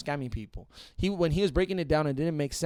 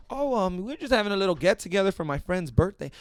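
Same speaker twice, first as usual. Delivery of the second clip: mock innocent excuse; 6 semitones higher, 3 dB louder than usual.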